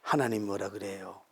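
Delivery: normal talking voice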